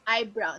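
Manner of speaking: "Eyebrow" said with a clear "eye" at the start, falling; eyebrow said right. Shown as a demonstration. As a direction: give "Eyebrow" its full "eye" sound. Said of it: "not bro".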